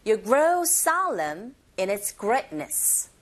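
"grow solemn" and "greatness" stressed, "in its" linked; slow model sentence, punching "grow", gliding over "in its"; stressed content words. Shown as a demonstration. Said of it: "이렇게 발음 연습하시면 됩니다". ("grow solemn", "greatness"에 강세, "in its"는 가볍게 연음)

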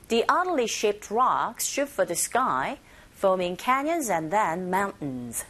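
slow model with "oddly" as AH-dly; teacher slowly models it for practice; slow drill line. Shown as a demonstration. Teacher drills the sentence slowly for listeners to repeat. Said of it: "한 번 더".

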